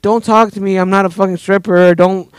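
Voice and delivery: indignant rebuff. Retold or imitated. Rebuffing the man's advance.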